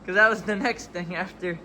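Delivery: muffled, like through a wall. Real, not acted. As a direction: talk as if behind a cover. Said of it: "'cause you sound like you're muffled".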